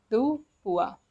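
"deux points" as "duh pwa"; French pronunciation demo. Shown as a demonstration. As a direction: stress "deux", let "points" fall. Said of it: "which is pronounced as".

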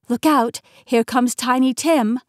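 loud warning shout; warning call. Acted. Warning about a big dog.

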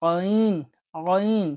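আইন begun with a tight voiced sound from the throat; throat sound ain. Shown as a demonstration. Teacher shows learners আইন, sound from throat. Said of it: "গলার আওয়াজ হবে এখানে".

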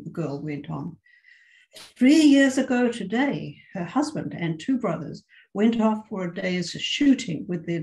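expressive read-aloud with voiced dialogue; story reading. A narrator's reading. Teacher reading a short story to her English class, expressive narration. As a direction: tell the tale to the class, lively and clear.

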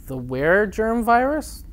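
slow disbelieving question, rising; incredulous. Real, not acted. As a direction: repeat it in disbelief. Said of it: "nobody's gonna believe that".

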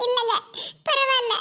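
mildly tearful refusal. Acted. Wife turning down husband's offer to visit, tearful. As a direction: decline through tears. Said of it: "அழுதுகிட்டு இருக்கா?".

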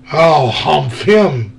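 a lightly voiced grand genie. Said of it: "said the genie".

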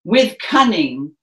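slow, projected stage delivery; angry father, slow and projected; Royal Shakespeare Company. Shown as a demonstration. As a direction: declaim it to the back row. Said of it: "in our best Royal Shakespeare Company voices".

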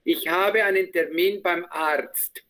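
frase modelo muy despacio; lento y claro. Shown as a demonstration. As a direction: dictarla para que la repitan. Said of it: "vas a repetir la frase". (muy despacio, como profesor que dicta)

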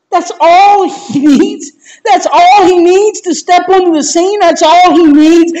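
overjoyed, half laughing half crying; laughing through tears. Real, not acted. Preacher overcome with joy.

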